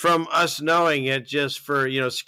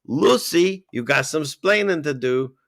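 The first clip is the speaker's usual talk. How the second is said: put-on Ricky Ricardo's Cuban accent; 3 semitones higher than usual. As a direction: quote it with a hint of Cuban accent. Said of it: "that line that everyone remembers in his accent".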